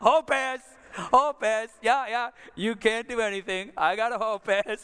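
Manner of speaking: acted, revved-up, amped, high-pitched teasing tone. Retelling answering a yelling teacher in the hallway: retelling an amped-up taunt. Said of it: "I would just amp it up".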